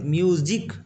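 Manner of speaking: correcting to "myoo-jik" for म्यूजिक; म्यूजिक with ज, not z, in the middle. Shown as a demonstration. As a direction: say म्यूजिक with a firm j, myu-jik. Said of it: "ज होता है इसका उच्चारण".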